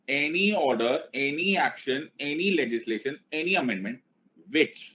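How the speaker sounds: measured, evenly chanted list; each item set apart in the same lilt; dictation for repeating. Shown as a demonstration. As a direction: lead the class phrase by phrase. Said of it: "मैं फिर बोल रहा हूं".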